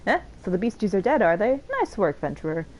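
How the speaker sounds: lightly voiced bragging veteran; boastful old warrior. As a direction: swagger through the tale of glory, hammed-up a bit. Reads Tractome lines again.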